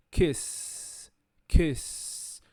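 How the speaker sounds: KISS with a long voiceless S; unvoiced S. Shown as a demonstration. Teacher demonstrating the unvoiced end of KISS, long S. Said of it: "termina com som de S".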